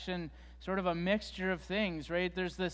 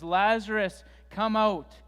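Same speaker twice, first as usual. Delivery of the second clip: called out louder, pitched higher; loud cry; 3 semitones higher, 8 dB louder than usual. A narrator's reading. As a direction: summon him out of the tomb with a loud call. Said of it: "Jesus cries out in a loud voice".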